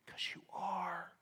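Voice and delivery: slow near-whisper; hushed admission. Real, not acted. Preacher admitting to congregation they are Judas, hushed and whispered. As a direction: let the voice drop away almost to nothing.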